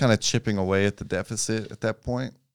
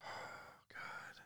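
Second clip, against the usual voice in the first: talking through a fizzy mouthful; fizzy soda tingle. Real, not acted. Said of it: "It's so fizzy in my mouth".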